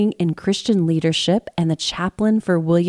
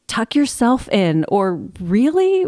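mock exasperated parent; 4 semitones higher than usual. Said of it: "The words like".

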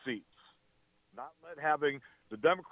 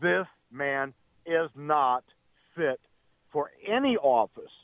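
impassioned. Real, not acted. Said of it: "I really appreciate your passion".

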